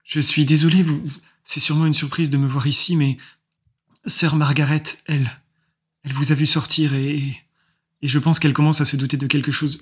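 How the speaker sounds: put-on high, thin, hesitant girl's voice; thin little voice. GM voices Hélène.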